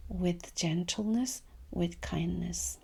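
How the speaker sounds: soft and slow on "with gentleness, with kindness"; gentle. Shown as a demonstration. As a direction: say it the way you want to feel. Modelling gentle self-talk.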